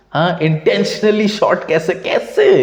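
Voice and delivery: high-pitched, drawn-out disbelieving challenge; incredulous questioning. Real, not acted. Challenging fans who claim an intentional shot, incredulous. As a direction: demand an explanation, pitch leaping on the last word.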